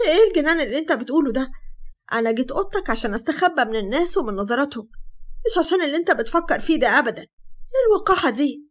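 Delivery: outraged. Acted. Sara to Hatem, outraged and shocked.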